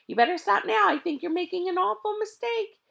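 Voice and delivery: loud, high call over the motor. Acted. Mac calls down to the thieves over the motor, loud. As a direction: shout it down over the engine roar. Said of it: "he called down to the pair of thieves".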